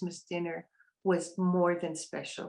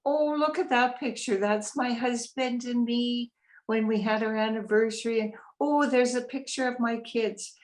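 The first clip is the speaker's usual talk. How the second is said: imitating a delighted mom, pitched up; happy exclaiming; 4 semitones higher than usual. Mom showing off pictures in her new room, happily exclaiming. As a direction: lift the voice as if pointing out treasured pictures. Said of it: "She was so happy".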